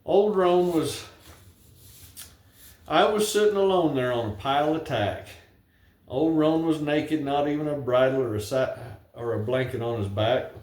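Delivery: reciting a rhyming ballad; poem recitation. Acted. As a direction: tell it like a cowboy poem at a gathering. Recites his cowboy poem.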